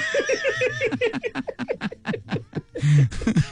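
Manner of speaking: high burst of laughter; big laugh. Real, not acted. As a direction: laugh hard at the joke. Laughs at own joke.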